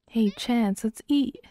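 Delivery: high-pitched call to the table. Acted. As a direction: call your partner over, voice lifting high. Sim calls partner to breakfast.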